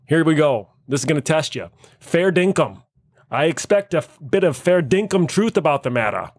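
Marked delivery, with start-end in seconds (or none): 2.0-6.3 put-on Aussie slang delivery; Australian accent. Shown as a demonstration. Host tests friends on slang, Australian accent. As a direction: say it as a playful Australian. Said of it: "See if we can understand some Australian".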